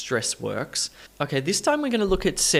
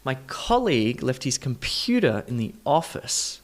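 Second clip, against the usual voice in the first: colleague, computer, office: COL, PU, OF stressed; word stress demonstration. Shown as a demonstration. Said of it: "Let's do stress position".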